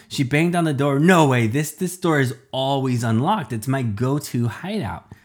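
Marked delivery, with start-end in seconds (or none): 1.0-5.1 upset. Acted. Upset at locked door.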